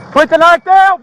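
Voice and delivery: loud desperate police order; shouting command. Real, not acted. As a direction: bark it as he closes in. Officer commanding, man advancing.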